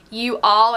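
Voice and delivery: YOU ALL said as two separate words; careful, uncontracted YOU ALL; spelled-out you all. Shown as a demonstration. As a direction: say YOU ALL in full, not run together. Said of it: "spell it out".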